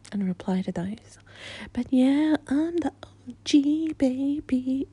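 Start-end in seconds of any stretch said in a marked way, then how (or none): 1.7-4.9 loud, higher bragging; playful boast. Pretend. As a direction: brag it out playfully.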